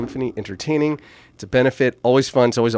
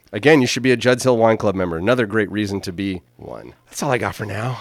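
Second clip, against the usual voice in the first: breathless after a long pitch; out of breath. Real, not acted. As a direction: talk while winded. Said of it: "I'm out of breath".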